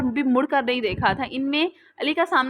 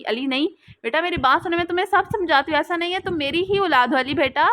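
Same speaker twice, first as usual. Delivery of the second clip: crying out pleading; 4 semitones higher than usual. Acted. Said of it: "वो रोते हुए चिल्लाती".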